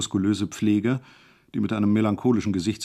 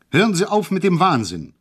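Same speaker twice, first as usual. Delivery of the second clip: higher, louder outburst; shouted; 8 semitones higher, 5 dB louder than usual. A narrator's reading. Hejula shouting at the uniformed man to stop. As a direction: shout him down in alarm. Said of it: "rief ich".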